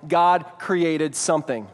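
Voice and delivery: slow, weighty "God created something" with God stressed. Shown as a demonstration. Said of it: "And out of nothing".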